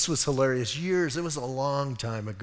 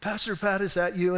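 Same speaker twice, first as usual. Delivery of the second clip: higher, calling across the store; calling from aisles away; 5 semitones higher than usual. Retold or imitated. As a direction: call out to him from three aisles over. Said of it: "they're, like, three aisles over".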